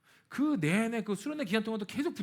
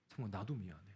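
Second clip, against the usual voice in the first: much lower and softer, crying; tearful; 10 semitones lower, 11 dB quieter than usual. Retold or imitated. Preacher retells sister's tearful reply, low and soft. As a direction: speak through tears. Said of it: "펑펑 울면서".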